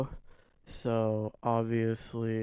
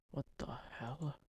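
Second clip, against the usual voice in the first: muttered under breath; 16 dB quieter than usual. Real, not acted. Muttering to himself at screen.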